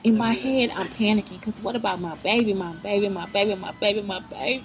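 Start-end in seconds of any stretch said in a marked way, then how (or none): 2.0-4.6 put-on rising, squeaky panicked wail of my baby; a frantic new mom on the plane, wailing over her baby; mock panic. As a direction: climb higher and higher in a hammed-up panic. Panicking about newborn on plane.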